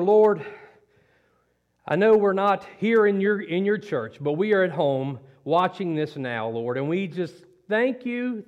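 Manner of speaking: earnest spoken prayer to the Lord. Acted. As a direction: pray it out humbly, with feeling. Pastor leads congregation in prayer.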